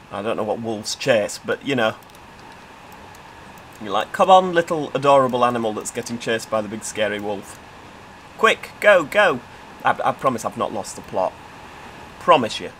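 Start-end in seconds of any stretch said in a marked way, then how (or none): 4.1-9.4 cheering on. Pretend. Cheering on prey chased by wolf.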